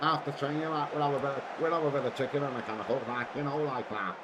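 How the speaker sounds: light put-on regional English accent, fast; quick joking English accent. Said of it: "That's the only time I'm doing the accent tonight".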